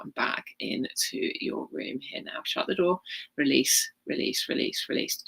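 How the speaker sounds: walk them gently down the steps; guided meditation. Acted. Healer guiding listeners back from the temple, calm.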